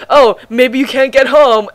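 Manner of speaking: high, slow quote; lightly voiced pioneer; imitating the pioneer. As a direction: mimic his offhand line. Quoting the pioneer.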